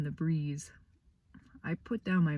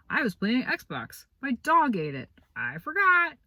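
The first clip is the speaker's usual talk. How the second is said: airy, rising fake excuses, each higher; mock kid excuses; 8 semitones higher, 5 dB louder than usual. Boy mocking normal kids' excuses, lightly put-on. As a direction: rattle off lame excuses like a carefree kid.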